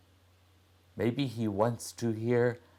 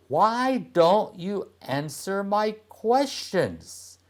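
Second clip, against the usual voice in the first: angry; 11 semitones higher than usual. A narrator's reading. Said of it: "Chomnon feels angry".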